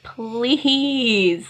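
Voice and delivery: long, wheedling mock plea; pleading. Bella talking her husband round, pleading. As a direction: draw the word out, begging playfully.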